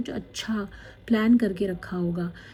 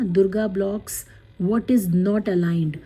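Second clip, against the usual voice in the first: slow card reading; much slower than usual. Acted.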